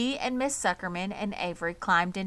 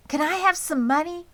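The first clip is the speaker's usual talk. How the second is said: put-on pleading girl; 10 semitones higher, 6 dB louder than usual. A narrator's reading. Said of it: "asked Fern".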